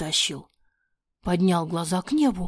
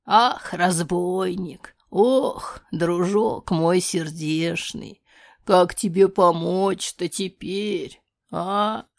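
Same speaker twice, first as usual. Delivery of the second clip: longing; much slower than usual. Acted. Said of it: "проговорила с тоской".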